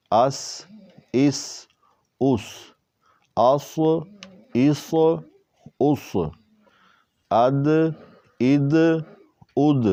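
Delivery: "اد" with a bouncing echo on د; "اد" with a little bounce; qalqala on dal. Shown as a demonstration. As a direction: bounce the final د of "اد". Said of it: "دال میں قلقلہ بھی کریں گے".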